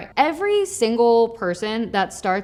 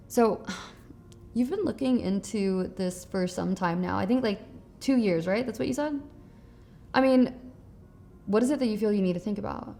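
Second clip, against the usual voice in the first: much softer, unhurried, with pauses and a sigh; soft empathetic tone; 6 dB quieter than usual. Shown as a demonstration. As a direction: ease the buyer gently toward the real objection. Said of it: "pay attention to my tone here".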